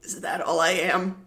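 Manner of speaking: high, loud offended little fairy; indignant fairy. Acted. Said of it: "he looks up at you and he goes".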